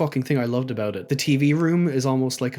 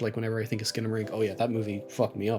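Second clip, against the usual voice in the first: quiet; 2 semitones lower, 6 dB quieter, faster than usual. Real, not acted. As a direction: drop the voice to a murmur. Remembering how the movie felt.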